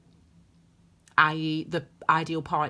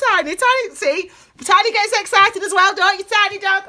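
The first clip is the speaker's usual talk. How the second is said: pet talk; 14 semitones higher, 10 dB louder than usual. Real, not acted. Cooing to her dog.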